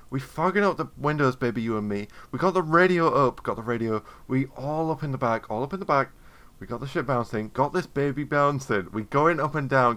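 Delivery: smooth seductive recitation, every babe lingering; mock sexy love poem. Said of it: "your apology poem".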